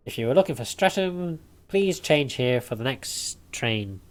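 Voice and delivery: mock conductor PA voice; train announcer.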